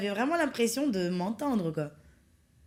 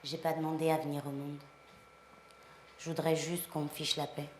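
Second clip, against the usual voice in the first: softer, lower, meant sincerely; sincere storytelling; 6 semitones lower, 6 dB quieter than usual. Shown as a demonstration. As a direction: tell it like your own story. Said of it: "pense à ce que tu dis".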